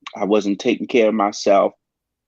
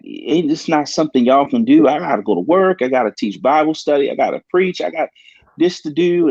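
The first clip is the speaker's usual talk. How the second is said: higher-pitched, incredulous objection; retold protest; 6 semitones higher than usual. Patient objecting to doctors about immediate surgery, retold protest. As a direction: reel off your obligations in a higher voice.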